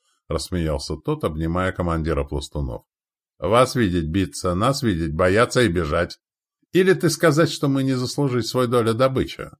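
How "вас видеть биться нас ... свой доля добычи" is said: hearty, rising in pitch; lightly voiced foreign warrior. Ally claiming share of spoils, lightly voiced foreign warrior. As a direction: boast lightly in broken Russian.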